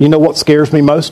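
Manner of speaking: ordinary talk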